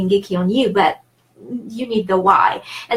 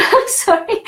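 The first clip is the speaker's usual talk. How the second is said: high, giggly apology; laughing apology; 10 semitones higher than usual. Real, not acted. Teacher sorry for getting geeky, laughing.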